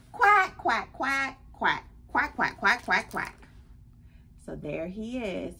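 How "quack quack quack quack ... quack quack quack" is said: rapid run of quacks settling down; duck quacking. Acted. Duck quacking during rocket launch.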